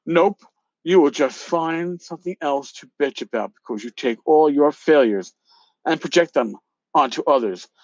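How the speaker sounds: reading the angry email aloud with some heat; hammed-up dramatic reading of an email; reading out a feud email with mock drama. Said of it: "the dramatic reading".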